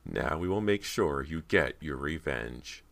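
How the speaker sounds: slow, sinister villain voice. Acted. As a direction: promise revenge slowly, with menace. Villain's menacing promise.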